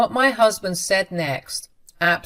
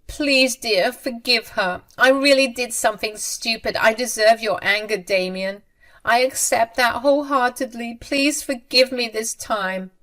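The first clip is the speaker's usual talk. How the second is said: higher pleading mother's voice, a touch of crying; tearful pleading mother; 5 semitones higher than usual. Acted. Mother begging her son Damien for forgiveness, higher tearful pleading. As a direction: beg forgiveness like a frightened mother. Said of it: "Sabrina cried and said".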